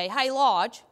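mild call across the room. Retold or imitated. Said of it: "like, we'd call".

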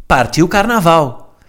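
put-on slow, drawn-out Brazilian-accented cheer; mock Brazilian Portuguese. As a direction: stretch it like a Brazilian party cry. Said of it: "o meu preferido de todos". (a imitar o sotaque brasileiro, arrastado)

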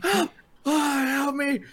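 high-pitched distressed wail, imitated; hammed-up high plea; mock cry for help. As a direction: play a man crying out for rescue. Voicing the man lying in street.

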